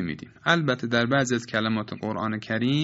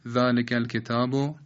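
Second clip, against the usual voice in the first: wrong chopped recitation. Shown as a demonstration. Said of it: "نباید بخوانیم".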